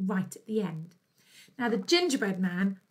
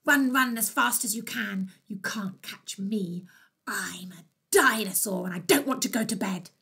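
dinosaur voice. Acted. Dinosaur shouts his refrain.

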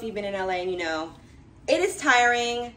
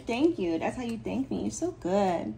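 normal talking voice

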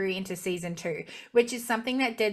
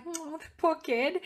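put-on higher, softer pitying coo over the poor kid; a light mock-sad coo; pitying sigh; 7 semitones higher, 4 dB quieter than usual. Reacting to the boy left behind, a soft pitying coo. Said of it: "So I was like".

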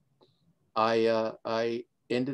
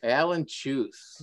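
"Alan Chuth" drawn out slowly; slow clarification; much slower than usual. Real, not acted. Guest repeating the name for the host, slow clarification.

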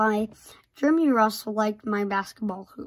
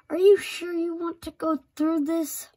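dad voice; 7 semitones higher than usual. Acted. Dad's warning line, voiced.

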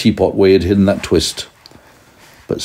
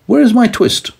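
tailor's plea; 3 dB louder than usual. Acted. Tailor asks cat, pitch high.

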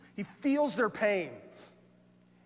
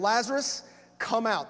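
warrior's command. Retold or imitated. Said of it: "a command of a warrior saying".

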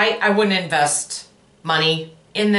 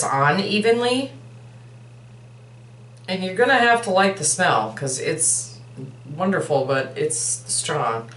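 talking while applying face mask; fingers on lips; 4 dB quieter than usual. Real, not acted. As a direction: hand partly over mouth. Seen 1: Fingers rub lips and upper lip, applying mask while speaking.

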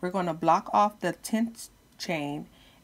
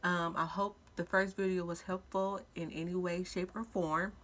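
speaking with a retainer in; words slightly lisped around a retainer; wearing a retainer; 3 dB quieter than usual. Real, not acted. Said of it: "if I sound a little funny, I have my retainers in".

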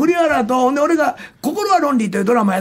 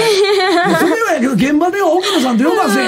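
retold angry rebuke; 6 semitones higher than usual. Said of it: "俺本気で怒ったんですよ".

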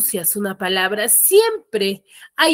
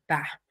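"ta" dropped low and soft; low, quiet "ta" closing the word; voice going down; 6 semitones lower, 9 dB quieter than usual. Shown as a demonstration. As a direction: let the unstressed "ta" fall away. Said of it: "mi voz va bajando".

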